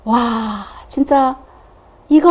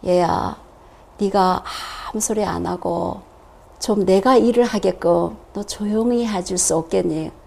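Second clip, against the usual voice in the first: gentle inner voice; 4 semitones lower, 6 dB quieter than usual. Retold or imitated. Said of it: "속에서".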